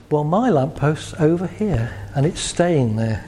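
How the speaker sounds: slow, calm and firm; assertive. Shown as a demonstration. Demonstrating assertion over the lamppost, calm and slow. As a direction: state your ground calmly, no heat. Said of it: "And assertion is".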